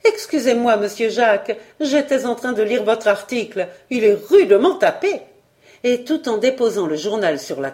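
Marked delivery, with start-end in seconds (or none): 0.0-5.2 lively housekeeper with swooping emphasis; chatty housekeeper, flustered. Acted. Housekeeper caught reading her employer's article, flustered and chatty. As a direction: play the housekeeper excusing herself eagerly.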